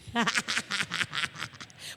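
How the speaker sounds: low, drawn-out chuckle; teasing belly laugh. Real, not acted. Preacher teasing brother Leandro before everyone, low laugh.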